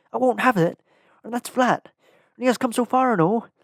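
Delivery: very high, angry, distressed cry. Narrator reading Sam's reply to the wizard in a story, angry and distressed Sam. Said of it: "cried someone, / protested someone. / angry and distressed".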